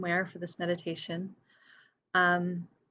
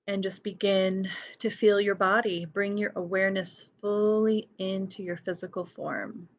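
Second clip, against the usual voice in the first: guided meditation. Real, not acted. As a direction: ease listeners into body awareness. Begins leading the meditation.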